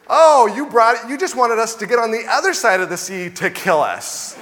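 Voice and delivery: hammed-up grumbling Israelite; whiny complaint. Israelites grumbling at God after crossing, in mock whine. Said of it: "Their response is".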